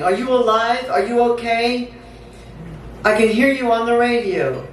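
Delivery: anxious plea without real tears; understated sobbing plea. Acted. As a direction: plead with someone who may be lost. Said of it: "I'm sobbing".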